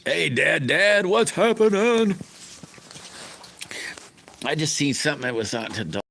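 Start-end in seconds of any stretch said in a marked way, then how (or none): 0.0-2.1 high, drawn-out call of hello; sing-song greeting. Real, not acted. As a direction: stretch out the greeting, much higher and louder. Greeting a viewer joining the live.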